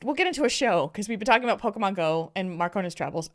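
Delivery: hiccuping while talking; hiccups. Real, not acted. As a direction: talk between hiccups. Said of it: "I'm hiccuping".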